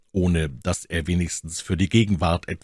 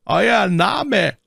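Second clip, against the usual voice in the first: high, loud curt question; curt demand; 5 dB louder than usual. A narrator's reading. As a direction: demand the name. Officer repeats demand.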